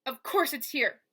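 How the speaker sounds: lightly voiced rasping thug; rasping villain. Basta taunting Mo through the wall, light rasping menace. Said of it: "rasping like a cat's tongue".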